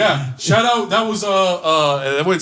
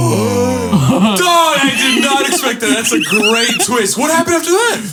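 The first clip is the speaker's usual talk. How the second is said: excited shouting; 7 semitones higher, slower than usual. Real, not acted. Friend shouting in excitement at the nurse's son twist. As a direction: yell it like the best plot twist ever.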